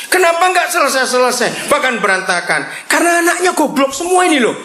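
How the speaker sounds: high, laughing jab at the flock; laughing while teasing the congregation. Real, not acted. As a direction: chuckle through the scolding. Laughing jab at lazy believers.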